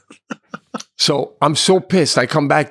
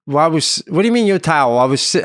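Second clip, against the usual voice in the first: indignant raised voice, calling back; yelling; 4 semitones higher, 4 dB louder than usual. Retold or imitated. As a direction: retort loudly to someone still far off. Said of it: "I'm yelling to him now".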